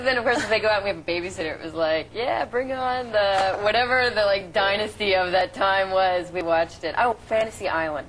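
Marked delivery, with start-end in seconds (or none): 2.1-6.3 loud, drawn-out mock glee; excited retold cheer. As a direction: stretch it out like kids let loose. Voices kids' glee with a babysitter.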